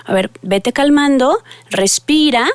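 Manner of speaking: slow, soothing calm-down voice; soothing slowly. Shown as a demonstration. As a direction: ease the child down gently. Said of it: "vamos a decirle". (tono lento y tranquilizador para calmar al niño)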